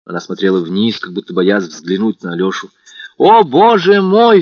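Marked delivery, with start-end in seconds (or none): 3.2-4.4 much higher, louder, slow rapturous exclamation; overjoyed young man crying out; cry of delight. A narrator's reading. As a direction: burst out in joy. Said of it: "вскрикнул он в восторге".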